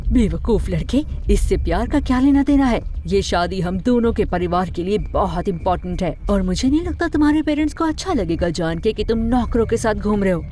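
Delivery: indignant, forceful scolding; angry mother. Acted. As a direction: berate the foolish young man. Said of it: "अचानक गुस्से में बेला की माँ". (गुस्से में फटकारती माँ)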